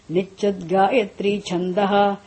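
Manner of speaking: "Nichrit Gayatri Chandaha" said slowly, each syllable spelt out for students; slow recitation. Shown as a demonstration. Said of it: "You say".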